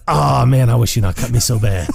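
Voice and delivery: laughing mock plea. Imagined victim pleads with the Beetle, laughing. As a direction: beg while cracking up. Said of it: "you're gonna be like".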